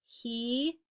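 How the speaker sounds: very slow, unvoiced whisper. Shown as a demonstration. Teacher slowly whispering what the sentence really means. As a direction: draw out each word in a hush.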